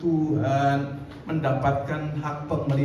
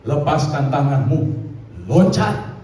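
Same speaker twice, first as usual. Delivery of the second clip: louder, firm repeated command; voice from above again; 6 dB louder than usual. Retold or imitated. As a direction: insist from above. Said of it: "Suara itu bilang lagi". (suara dari atas mengulang perintah)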